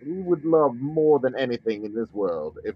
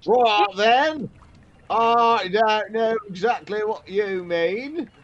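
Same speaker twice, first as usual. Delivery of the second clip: slow, higher put-on south London accent; fake London accent; 8 semitones higher, slower than usual. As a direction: play dumb in a hammed-up London voice. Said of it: "my incredibly authentic accent".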